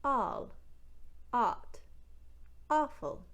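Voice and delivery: Newfoundland "all", "ought", "awful" with a wide ah; Newfoundland accent, aw turned to ah. Shown as a demonstration. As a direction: open every aw to ah, Newfoundland style. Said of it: "will sound like".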